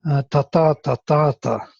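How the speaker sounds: five rhythm syllables, stress on every second ta; ta ta ta ta ta, weak then strong each time; iambic rhythm. Shown as a demonstration. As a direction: tap out the iambic beat on ta. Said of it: "it has a iambic, uh, structure".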